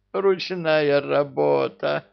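slow, high anguished cry; despairing wail. A narrator's reading. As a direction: wail over the ruined cake. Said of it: "схватился за голову Амар".

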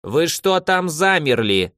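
impatient grandmother nagging from below; grumbling. Acted. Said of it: "донёсся ворчливый голос".

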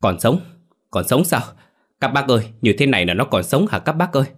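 breathless frantic questioning; frantic disbelief. Acted. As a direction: beg the villagers to say she lives. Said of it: "nó hét lên".

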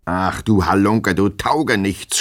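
slow, drawn-out scolding with moderate force. A narrator's reading. Master scolding his sleeping servant, exasperated. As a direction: berate the sleepy rascal. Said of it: "schimpfte ihn Herr Goljetkin".

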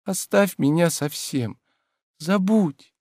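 tender pleading. A narrator's reading. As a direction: plead gently, slowly. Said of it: "сказал он нежным, умоляющим голосом". (нежно и умоляюще, медленно)

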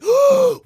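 sharp high gasp; sudden delighted loud gasp; loud excited gasp. Real, not acted. Excited by idea.

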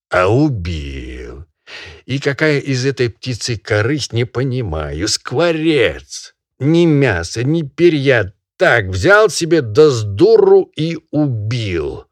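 loud, high lecturing master; scolding barin. Acted. Barin scolding the peasant over the dead bird, loud and high. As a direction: berate him like a pompous landowner.

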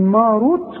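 ماروت with a thin م; wrong reading. Shown as a demonstration. Teacher imitates the student's thin ماروت. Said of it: "برضو غلط".

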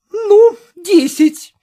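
high, loud, drawn-out wail; crying out. Acted. Sister dropping her price, a high slow wailing cry. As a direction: give in with a sobbing wail. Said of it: "махнула рукой".

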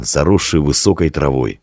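ordinary delivery

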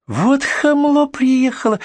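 very high, drawn-out indignant squeal; shrieking. Acted. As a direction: squeal in outrage at the medics. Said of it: "взвизгнула соседка".

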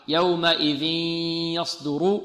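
يومئذ يصدر with a long nasal glide into the Y; nasal merging. Shown as a demonstration. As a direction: hold the nasal hum between يومئذ and يصدر. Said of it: "انظر معي".

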